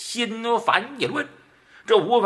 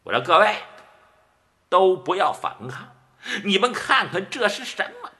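mild raised call, holding up the head; loud call to the crowd; 2 semitones higher than usual. Acted. Murong Zhen calling loudly to the leaderless troops. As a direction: call out over the crowd, lightly voiced. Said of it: "高声喊喝".

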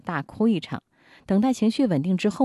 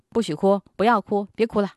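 forbidding crying; 4 semitones higher, 4 dB louder than usual. Retold or imitated. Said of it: "会制止".

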